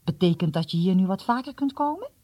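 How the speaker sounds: quick, eager hopeful asking; hope he says yes; hopeful question. Acted. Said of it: "vroeg Wan hoopvol".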